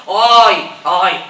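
loud mock coo; gushing ay. Stranger gushing over a pregnant woman. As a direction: swoon over the baby. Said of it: "y dice".

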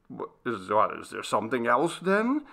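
mildly impatient question, rising at the end. Acted. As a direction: press for an answer with a touch of impatience. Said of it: "asked Michael impatiently".

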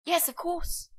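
eager, high-pitched burst of agreement, then settling; enthusiastic. Acted. Would-be nanny to a mother about changing nappies, enthusiastic. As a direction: jump in keenly to reassure. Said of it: "you sure sound enthusiastic".

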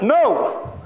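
abrupt high shout; outraged refusal. Acted. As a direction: cut the idea dead. Rabbi suddenly forbids standing up.

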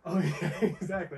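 high, excited mock agreement; mock bragging fan. Mocking posers who claim Border Patrol, hyped-up and laughing. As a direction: parody the eager know-it-all.

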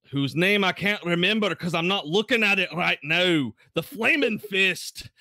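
booming paladin rallying the room; rally the troops like a Braveheart speech; rousing paladin speech. Acted. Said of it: "pounding his fist against the table, calling the room to order".

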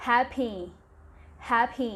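"happy" said clearly as แฮปปี้, stressing the first syllable; model pronunciation. Shown as a demonstration. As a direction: say "happy" slowly and cleanly for the class to repeat. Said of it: "คำนี้ออกเสียงว่า". (ออกเสียง "happy" ชัดๆ ให้นักเรียนพูดตาม)

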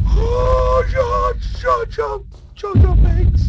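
very high, loud, frantic stuttering; panicked stammer. Real, not acted. Gamer fleeing Slender Man, stammering in high panic. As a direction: stumble over the words in terror.

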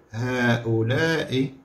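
هؤلاء said slowly, falling; slow answer. Shown as a demonstration. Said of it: "شنو نقولوا؟".

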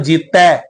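ਜੀਤੈ ending in an open "ai" vowel; dulavan pronunciation. Shown as a demonstration. Preacher showing the congregation the vowel sign, ਜੀਤੈ said with "ai". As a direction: read ਜੀਤੈ slowly with its final "ai" sounded. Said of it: "ਜੀਤੈ ਤੱਤੇ ਤੇ ਦੁਲਾਵਾਂ ਲੱਗੀਆਂ ਨੇ".

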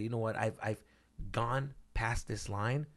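hushed, brooding menace; menacing TV antihero. Acted. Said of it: "you know what he said?".

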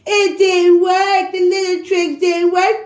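sing-song mock pity; taunting singsong, it didn't work; mocking baby talk. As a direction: coo it like teasing a pouting child. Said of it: "what the fuck made me talk like that".

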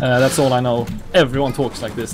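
demonstrating a Swedish accent. Shown as a demonstration. Describing talk at work in a Swedish accent. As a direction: speak Swedish-accented English. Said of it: "don't you like this accent?".

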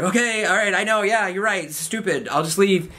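mock meek surrender. Meek patient giving in to doctor.

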